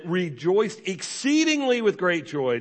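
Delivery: slow, weighty stress on "exceedingly"; emphatic reading. Shown as a demonstration. Pastor stressing the verse to the congregation, slow and weighty. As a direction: lean into "exceedingly", drawn out. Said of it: "That is emphatic".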